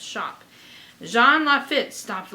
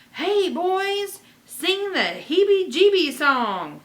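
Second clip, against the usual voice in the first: louder, higher call across the music; yelled; 9 semitones higher, 6 dB louder than usual. Acted. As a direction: yell to the band. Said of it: "yell to his trio".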